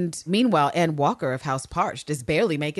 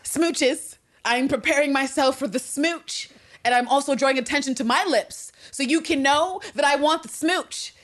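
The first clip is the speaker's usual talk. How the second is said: playful high; 9 semitones higher than usual. Retold or imitated. Voicing Lister's body language.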